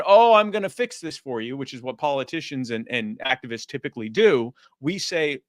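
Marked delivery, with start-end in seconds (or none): 0.0-1.6 high, loud, syrupy politician gush; hammed-up caring-politician voice; mock sympathy. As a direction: parody a fawning politician.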